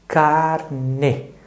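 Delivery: "Carne" dito devagar, em duas partes: car, ne; sílaba por sílaba. Shown as a demonstration. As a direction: separe "Carne" em car... ne, com o E final aberto em ê. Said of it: "Quantas vezes você mexeu a boca?". ("Carne" silabado, com pausa entre car e ne)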